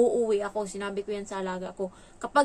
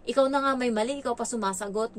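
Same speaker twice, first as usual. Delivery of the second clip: mildly angry scolding; 3 semitones higher, 3 dB louder than usual. Retold or imitated. Helper scolds the ward who answers back, mildly angry. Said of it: "Yung boses ko, iba na din, ah, medyo galit na".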